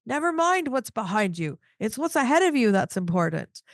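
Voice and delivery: retold fatherly telling-off; mock dad yell. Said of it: "my dad yelling at me going".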